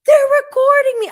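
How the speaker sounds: very high, loud, rushed squeal; mock-panicked teen squeal. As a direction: shriek it in sudden alarm. Daughter panics about being filmed.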